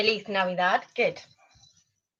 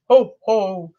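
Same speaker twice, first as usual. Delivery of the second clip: Santa ho ho; 4 semitones lower, 3 dB louder than usual. Shown as a demonstration. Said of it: "like Santa".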